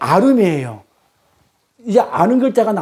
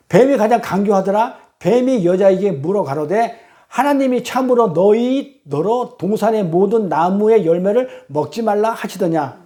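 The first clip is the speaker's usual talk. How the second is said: scripture reading. Acted. Preacher reads Genesis to the congregation, measured scripture reading. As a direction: read the verse out deliberately.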